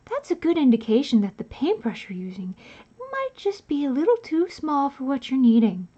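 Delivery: exaggerated tutorial host voice; put-on painting instructor voice; obnoxious voice. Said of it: "So how obnoxious was that voice?".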